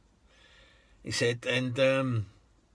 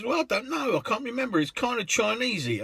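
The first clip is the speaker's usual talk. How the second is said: higher, unsure voice for Merv; vague Merv; 9 semitones higher than usual. Retold or imitated. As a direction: fumble for the hotel name. Merv unsure of his hotel.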